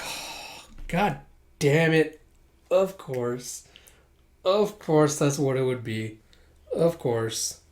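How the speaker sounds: big breathy sigh into muted resignation; acted-out fed-up muttering; exasperated realization. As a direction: groan wearily at the obvious. Realises who is behind the arrest.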